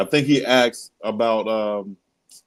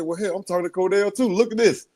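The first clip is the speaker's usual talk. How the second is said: higher, showing off to a cousin; retold boast; 10 semitones higher than usual. Host telling his cousin about Cordell, high bragging voice. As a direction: brag a little about who you're talking to. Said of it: "I said".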